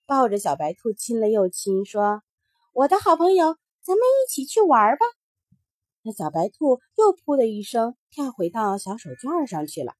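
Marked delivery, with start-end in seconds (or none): 2.7-5.1 put-on eager child. Mingming invites the rabbit.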